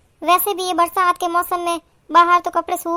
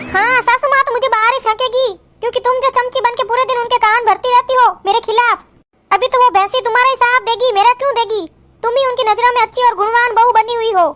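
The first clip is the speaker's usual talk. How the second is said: slightly raised, acted resentment; angry retort; 2 semitones higher than usual. Kajal accusing her elder sister-in-law, resentful retort. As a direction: throw the accusations back at her.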